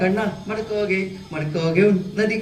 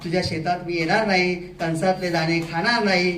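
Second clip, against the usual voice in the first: softer, worn-out plea to the farmer; exhausted crow; 2 semitones lower, 5 dB quieter than usual. Acted. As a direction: beg with barely any strength left. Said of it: "उडण्याची त्याची जरा पण ताकद राहिलेली नव्हती". (थकलेल्या कावळ्याची हळू, क्षीण विनवणी)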